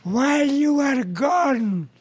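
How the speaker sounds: put-on slow, drawn-out Arab-accented confession. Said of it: "he says to the Jewish guy".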